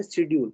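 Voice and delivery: schedule without the k sound; schedule with no hard k after the s; contrasting pronunciation. Shown as a demonstration. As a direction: say schedule with a soft first syllable. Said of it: "So we are talking what?".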